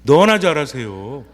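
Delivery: slow, drawn-out sarcastic jab with a rising end; mock snide comeback, stretched out; snippy retort. Parishioner snapping back at a nagging colleague, slow and sarcastic. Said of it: "그러면 뭐라고 하십니까?".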